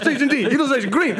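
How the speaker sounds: high, hurried roll call and reply; mock captain and crew exchange; excited calling across the deck; ship's crew calls. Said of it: "felt like we were on a ship".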